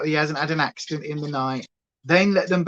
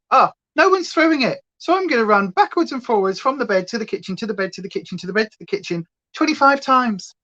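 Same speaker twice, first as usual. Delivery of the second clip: huffy dog voice; 4 semitones higher, faster than usual. Pretend. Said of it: "and then he'll just go".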